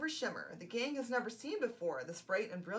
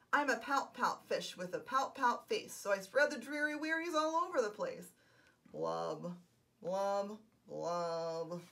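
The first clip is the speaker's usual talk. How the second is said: the sulky fish sings his refrain; glum pout fish; 3 semitones lower than usual. Acted. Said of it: "glum, gloomy swimmer".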